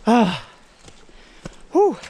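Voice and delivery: puffing out a tired breath; winded exhale. Real, not acted. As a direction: blow out air after a climb. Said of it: "I'm already out of breath".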